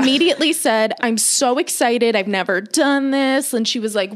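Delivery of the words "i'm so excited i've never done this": excited gush, drawn out slowly; retold excitement. Client telling masseuse it's a first time, retold excitement. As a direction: replay your own eager gushing, pitched up. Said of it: "we're both now very excited".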